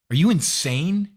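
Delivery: outraged disbelief. Real, not acted. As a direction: hurl the question in disbelief at the deal. Outraged at plea deal news.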